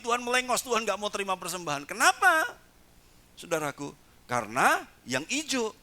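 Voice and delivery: normal talking voice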